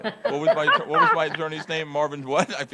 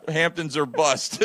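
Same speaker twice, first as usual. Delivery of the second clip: slow sign reading; 4 semitones lower, 3 dB quieter, much slower than usual. Pretend. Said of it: "a sign on the back that says".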